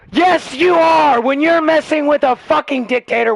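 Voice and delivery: angry shout. Real, not acted. Arguing with a teenager, real angry shout. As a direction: drive it home with a real yell. Heated political argument, yelling.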